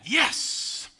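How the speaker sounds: voiceless, triumphant hiss of yes; gloating celebration. Acted. Celebrating Brady's defeat.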